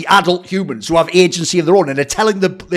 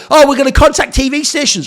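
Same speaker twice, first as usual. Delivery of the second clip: higher sneering mock voice; 6 semitones higher than usual. Streamer mocking T1's plan to call TV stations, snide. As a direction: parrot it back snidely.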